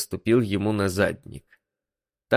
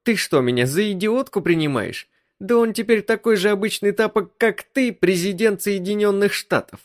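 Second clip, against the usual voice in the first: much higher female voice, scornful; indignant wife; 12 semitones higher, 4 dB louder than usual. Acted. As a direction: scoff at him in disbelief. Wife's lines voiced high.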